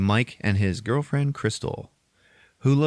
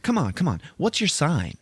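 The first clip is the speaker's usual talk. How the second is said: put-on high, insistent girl voice; pestering schoolgirl; 9 semitones higher than usual. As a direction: badger him for an answer. Yearbook girl pestering him.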